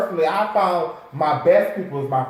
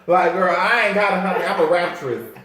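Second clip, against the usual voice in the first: mock wannabe singer; 2 semitones higher than usual. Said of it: "a lot of us out here like".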